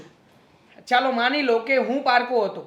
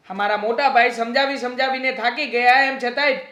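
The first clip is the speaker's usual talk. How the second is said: mildly angry, rising complaint; aggrieved protest; 4 dB louder than usual. Acted. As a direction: vent hurt indignation, getting more insistent. Aggrieved brother protests in acted quarrel. (નારાજગીભરી ફરિયાદ)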